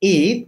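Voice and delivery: "Eid" drawn out with a long ee; isolated, stretched "Eid" for learners; easy pronunciation demo. Shown as a demonstration. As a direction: model "Eid" slowly and loudly, long ee. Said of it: "আমি একটু সহজ করে শিখিয়ে দিই".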